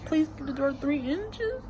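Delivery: high, soft quoted line; quoting the letter. Retold or imitated.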